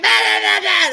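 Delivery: loud, high string of babble; mock squabbling noise. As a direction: imitate bickering without real words. Imitates a drunken bickering fight.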